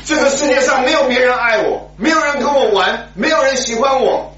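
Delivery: put-on high, loud, sobbing child begging; loud crying plea. Boy clinging to his dying mother, crying loudly. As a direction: wail it out like a desperate boy. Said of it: "他就抱着妈妈大声的哭".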